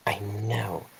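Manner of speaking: soft, under-the-breath answer; hushed reply. Acted. Replying to Arthur about the three candidates, hushed. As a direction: answer quietly, nearly whispering. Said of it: "I whisper back".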